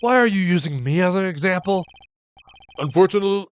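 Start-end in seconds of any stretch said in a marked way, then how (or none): 2.8-3.5 slightly raised, careful judge voice; a light take on the old judge; judge's voice. Acted. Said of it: "why am I using the judge's voice on him?".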